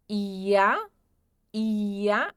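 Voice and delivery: ia with a final A sound; German pronunciation. Shown as a demonstration. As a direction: model ia for the class. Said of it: "fazemos a pronúncia como se tivesse um A no final". (ia com som de A no final)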